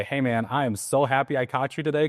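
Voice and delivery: loud, assertive. Shown as a demonstration. Agent agreeing with a gruff seller on the phone, assertive. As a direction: greet him from the chest, assertively glad. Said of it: "I'm talking loud too into the phone, like, assertive".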